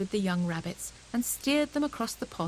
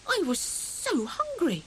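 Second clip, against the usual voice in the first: high, slow lament; mournful; 9 semitones higher than usual. A narrator's reading. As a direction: moan about lost food. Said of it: "cried Hare".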